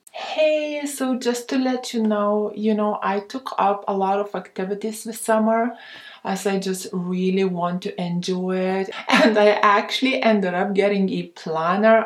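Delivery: light, breezy, friendly and fast; soft gentle tone. Shown as a demonstration. Woman answering the last-minute guy in a soft, gentle tone. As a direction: keep it soft and sweet while setting a boundary. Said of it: "in a very soft, gentle tone".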